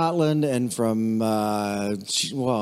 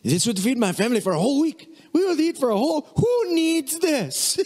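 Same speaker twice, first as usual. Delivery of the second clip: astonished visitor; 11 semitones higher than usual. Retold or imitated. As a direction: marvel at the size like an overwhelmed guest. Visitor shocked by huge cracker box.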